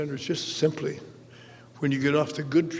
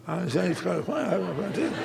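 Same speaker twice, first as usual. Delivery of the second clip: sheepish laughing; 3 semitones higher, faster than usual. Retold or imitated. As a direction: mumble it with an awkward laugh. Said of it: "I didn't say that".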